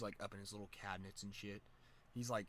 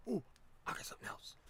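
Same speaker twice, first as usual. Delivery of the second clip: put-on giddy kid; 12 semitones higher, faster than usual. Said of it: "like a little giddy kid".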